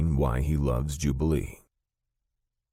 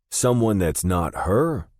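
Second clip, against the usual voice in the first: disbelief; 7 semitones higher, 6 dB louder, slower than usual. A narrator's reading. Shocked question.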